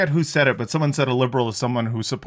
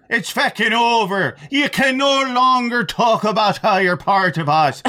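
mock Irish accent; 7 semitones higher than usual. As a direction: rant like an indignant Irish caricature. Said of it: "the Irish people, we don't claim you".

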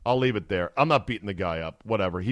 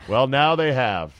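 slow, loud deadpan; dry sarcasm; 6 dB louder, slower than usual. Real, not acted. Host answering the reporter's line, slow loud sarcasm. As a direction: let the sarcasm land slowly.

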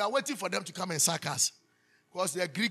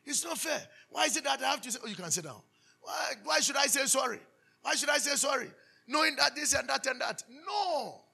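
higher, whiny protest of someone who won't apologise; mock complaint; 5 semitones higher than usual. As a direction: play the sulking child who refuses to say sorry. Mimics a stubborn person refusing.

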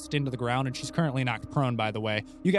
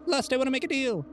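high, mock calling-out; imitated shout; 13 semitones higher than usual. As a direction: echo a player's summons as a pretend shout. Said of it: "you kinda just shout in the".

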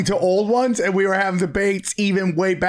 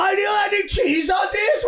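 very high, shouted Italian diner shtick; silly squealing Italian accent; mock Italian accent; 11 semitones higher than usual. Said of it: "What are you, Italian now?".

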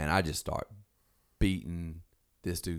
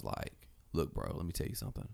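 whispered, softer threat; menacing whisper; 3 semitones lower, 8 dB quieter than usual. Retold or imitated. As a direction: lean in and threaten under your breath. Threatening the dude up close.

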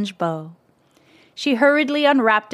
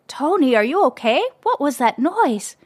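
panting; 5 semitones higher than usual. A narrator's reading. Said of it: "she panted from the doorway".

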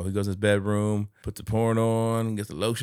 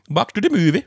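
hammed-up Eastern European accent, higher and louder; mock Eastern European accent; 9 semitones higher, 7 dB louder than usual. Shown as a demonstration. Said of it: "that was my best Polish, Swedish, Ukrainian accent".

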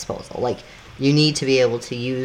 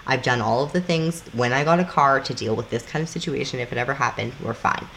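softer, calming herself in the car; soft, reassure yourself after the crash; self-soothing; 3 dB quieter than usual. Pretend.

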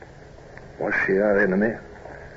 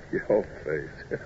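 laughing; 6 dB quieter than usual. Acted. Captain amused by Bush's dismay.

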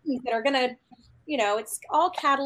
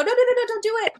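pleading no; 10 semitones higher, 4 dB louder, much faster than usual. Pretend.

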